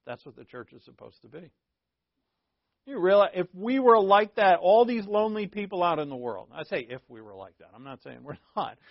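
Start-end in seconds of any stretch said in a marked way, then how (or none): 2.8-6.5 rising appeal. Acted.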